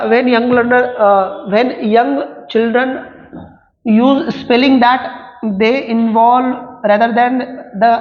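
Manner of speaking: slow, deliberate dictation reading; reading exam options. Acted. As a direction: read each word out slowly for students to follow. Reads reason aloud, slowly.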